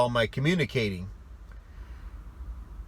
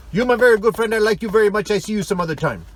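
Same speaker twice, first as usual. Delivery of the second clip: much higher and louder, gushing; effusive friendly; 10 semitones higher, 8 dB louder, faster than usual. Retold or imitated. Russian friend explaining goodbye, gushing and loud. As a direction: pour it out like a big-hearted friend.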